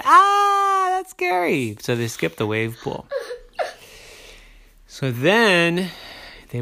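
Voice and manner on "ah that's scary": put-on high frightened kid gasp; a high, startled child's cry; scared gasp. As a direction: recoil from the wave. Kids see the big wave.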